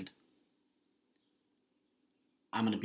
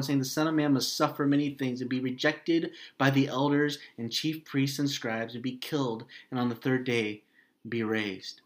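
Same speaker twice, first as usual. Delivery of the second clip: scripture reading; 3 semitones higher than usual. Acted. Preacher reading Luke to the congregation, a lifted scripture reading. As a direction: read the passage out to the congregation. Reads the Gospel passage aloud.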